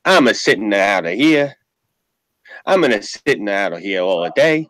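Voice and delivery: mock Italian immigrant accent, broken English; hammed-up Italian accent, grumbling; old immigrant father. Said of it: "He goes like this".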